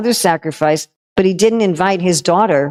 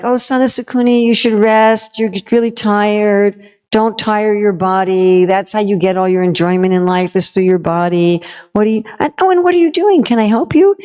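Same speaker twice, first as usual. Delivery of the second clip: sweet-talking con man; 3 semitones higher than usual. Acted. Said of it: "the ultimate con man".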